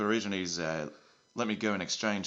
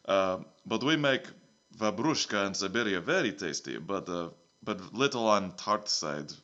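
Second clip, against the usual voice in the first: lightly put-on Russian accent, broken English; a hint of Russian accent, dropping the articles; a mild mock Russian accent. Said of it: "it's a Russian accent now".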